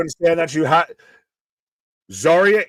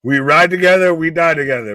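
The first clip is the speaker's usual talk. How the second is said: Bad Boys quote; 6 dB louder than usual. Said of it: "Bad boys".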